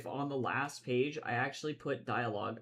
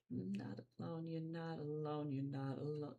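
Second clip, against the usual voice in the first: whisper; 14 dB quieter than usual. Acted. Whispered reassurance repeated.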